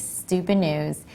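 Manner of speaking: slow, spaced out title read; segment title. Acted. Host teasing the next segment, slow announcer read.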